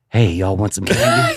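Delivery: low, slow creep voice; low slow candy-van voice; mock creepy stranger. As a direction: lure them like a creepy stranger. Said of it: "the concert equivalent of".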